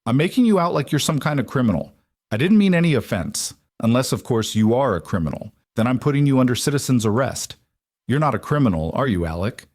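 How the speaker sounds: friendly chatty neighbour greeting Alec; cheery Waylon. Acted. Waylon voiced by narrator.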